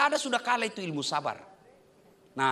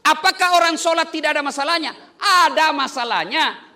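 laughing question; 6 semitones higher, 8 dB louder than usual. Real, not acted. Preacher laughing through question.

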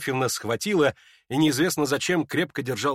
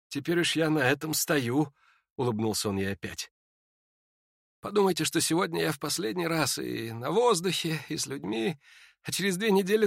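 put-on faint dying young man; 5 semitones higher than usual. Ippolit tells Lizaveta of his death, faint and weary. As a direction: speak like a sick man short of strength.

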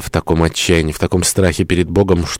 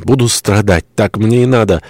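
higher-pitched self-punishing outburst; crying out; 4 semitones higher than usual. Acted. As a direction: cry out, willing to suffer. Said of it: "вскричала она".

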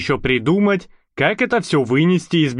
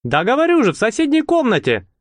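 put-on much higher, eager boyish voice; lightly voiced lad, untroubled; eager Bolt; 9 semitones higher, faster than usual. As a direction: answer like a carefree kid. Bolt answering, unbothered.

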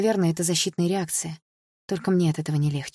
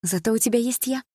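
higher, cheering-up tone with a smile; encouraging; 7 semitones higher than usual. A narrator's reading. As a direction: cheer up your friend, smiling. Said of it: "подбодрила я её улыбкой".

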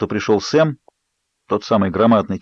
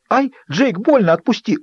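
much higher, pained "ай, Джейк, больно"; cry of pain; 12 semitones higher than usual. Acted. Bella cries out as Jacob squeezes her. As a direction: yelp as his grip hurts.

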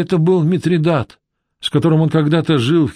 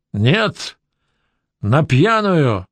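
insistent shout; much slower than usual. Acted. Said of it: "закричал Митридат настойчиво".

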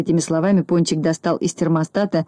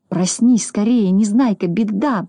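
mildly frightened, slightly raised voice; understated fearful urging; frightened muttering; 3 semitones higher than usual. Acted. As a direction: wake someone with a touch of alarm, drawn out. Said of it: "бормотал Пончик испуганно".

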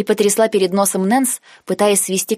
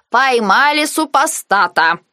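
slow, higher, louder triumphant cry; slow, raised proud exclamation; proud announcement; 6 semitones higher, 4 dB louder, slower than usual. Acted. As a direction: crow it out proudly, slowly. Nance proudly announces a catch.

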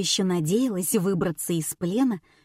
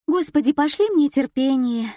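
pleading to heaven; 6 semitones higher, 4 dB louder than usual. A narrator's reading. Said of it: "взмолилась Лена".

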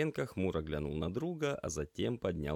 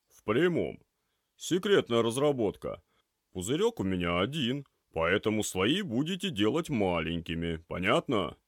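слегка озвученный ворчливый продавец; другим тембром, с добродушной насмешкой; хозяин магазина; 5 semitones higher, 7 dB louder than usual. Acted. Голос Степаныча. (Степаныч встречает ребят с лёгкой насмешкой)

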